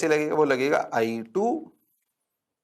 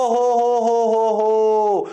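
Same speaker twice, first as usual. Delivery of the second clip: loud, slow hammed-up ho ho ho; 6 semitones higher, 5 dB louder, much slower than usual. Teacher celebrating the answer with a hammed-up ho ho. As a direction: crow with mock delight. Mock cheer after answer.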